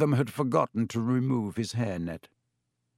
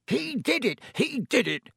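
much higher, spitting accusation; spat; 12 semitones higher than usual. A narrator's reading. Caretaker spitting the accusation at Harry, high and furious. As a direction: jab each word at him, furious. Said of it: "Filch spat".

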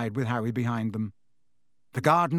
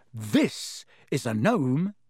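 grimly; much slower than usual. Acted. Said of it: "he said grimly".

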